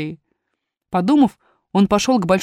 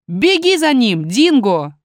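urging command; 4 dB louder, slower than usual. Acted. God orders dog to chase.

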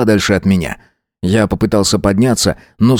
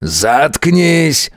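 a higher barked growl; growled shut up; 6 semitones higher than usual. A narrator's reading. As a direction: snap it at her. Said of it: "снова рыкнул незнакомец".

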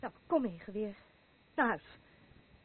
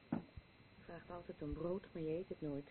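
weary reproach; 6 semitones lower, 10 dB quieter, slower than usual. Acted. Tired daughter chiding mother.

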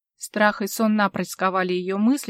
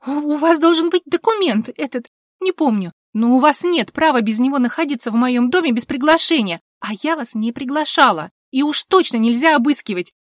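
higher, louder agitated rush; flustered protest; 5 semitones higher, 7 dB louder than usual. A narrator's reading. Vivien citing rights to the officer, agitated and loud. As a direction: stumble through it, frantic.

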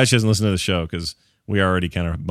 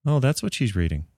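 soft, slightly raised mother-in-law voice; a quiet, doubtful mother-in-law; 2 semitones higher, 4 dB quieter than usual. Retold or imitated. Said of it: "it's usually more like".

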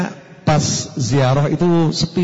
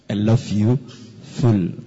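lower, drawled singer's voice; impression of a singer; 8 semitones lower, much slower than usual. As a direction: lightly imitate a singer. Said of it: "kata seorang penyanyi".

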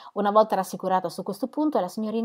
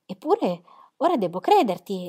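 exclaiming. Acted. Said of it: "esclamò Jane".

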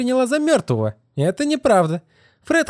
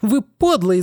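higher, pouring out her hatred; a girl's mock hysterical tirade, voiced higher; furious outburst. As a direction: tear into him without pause. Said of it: "Да у вас истерика".

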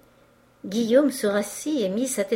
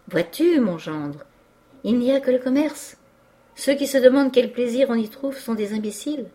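put-on higher, louder, emphatic old merchant; exalted enthusiasm; 5 semitones higher, 4 dB louder than usual. A narrator's reading. Merchant extols commerce to his future son-in-law, exalted. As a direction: hold forth with mounting zeal. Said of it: "s'écria le vieux marchand en s'exaltant".

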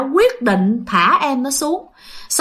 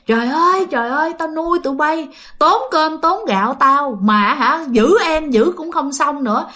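higher-pitched acted father's tirade; storyteller's mock cursing, pitched up without shouting; angry scolding; 4 semitones higher than usual. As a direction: berate the children as an enraged father. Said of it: "vừa đánh vừa chửi".

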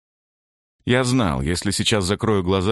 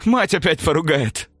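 wounded soldier, bitter smirk, higher voice; 11 semitones higher, 4 dB louder than usual. A narrator's reading. Wounded comrade to narrator, bitter mocking laugh. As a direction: spit it out with a bitter grin. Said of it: "Горько усмехнулся Миронов".

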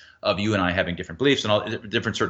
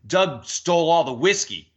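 higher, punchy, confident claim with DOUG stressed; 7 semitones higher than usual. Shown as a demonstration. Mob leader rousing the crowd about the whiskey, confident. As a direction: sell it like you'd stake your name on it.

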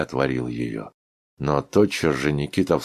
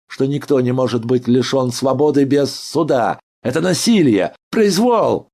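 high, loud raging protest; patient rails against the guard, furious shouting; furious tirade; 9 semitones higher, 7 dB louder than usual. A narrator's reading. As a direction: hurl the injustice at them. Ivan Dmitrich rages at injustice.

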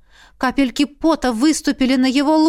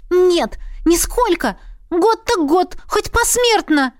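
much higher, squeaky protest; squeaking; 8 semitones higher than usual. A narrator's reading. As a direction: squeak it out in panic. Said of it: "пищала я".

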